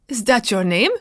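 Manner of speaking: sharp, startled question; horrified gasp at the name. Acted. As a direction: catch your breath in shock. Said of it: "he gasped".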